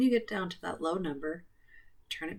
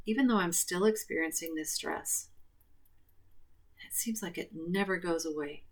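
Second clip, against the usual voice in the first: guided tapping script. Acted. Leads tapping setup statements.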